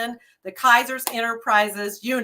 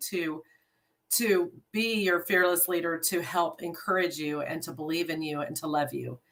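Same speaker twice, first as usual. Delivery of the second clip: soft, lower, halting sincerity; emotional; 5 semitones lower, 5 dB quieter than usual. Real, not acted. New leader pledging to love her unit, emotional. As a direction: hold back feeling as you pledge yourself. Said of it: "I'm getting a little bit emotional".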